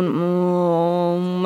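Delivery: low, slow guttural throat drone. Shown as a demonstration. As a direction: rumble it from the throat like a Tibetan chant. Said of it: "Te salió muy bien".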